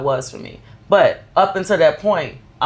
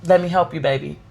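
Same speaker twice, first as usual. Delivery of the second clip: put-on tender to child; faster than usual.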